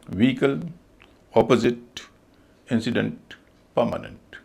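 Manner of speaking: व्हीकल, अपोजिट, इंसिडेंट, परमानेंट each stressed first; corrected pronunciations. Shown as a demonstration. Teacher reviewing the list, corrected pronunciations. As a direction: separate words, light reduced endings, as in परमानेंट "muh-nunt". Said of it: "इन सब में उच्चारण वो नहीं होते जो हम बोलते हैं".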